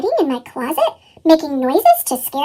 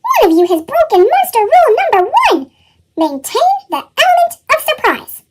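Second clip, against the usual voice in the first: higher, stern lecturing monster; stern monster teacher; 8 semitones higher than usual. A narrator's reading. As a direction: lay down the rules to the class.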